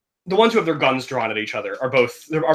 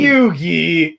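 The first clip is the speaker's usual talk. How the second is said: Yugi shout; 2 semitones higher, 5 dB louder than usual. Pretend. Friends mimic Yugi shout.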